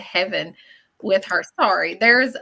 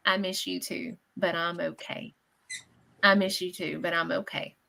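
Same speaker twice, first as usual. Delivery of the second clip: quiet message; 2 semitones lower, 6 dB quieter than usual. Retold or imitated. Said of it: "a very plain message".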